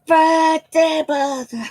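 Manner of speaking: high sing-song birthday; mock swear substitute. Getting up in pain, cursing politely in mock frustration. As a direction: swallow the curse with a silly word. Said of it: "I'm going".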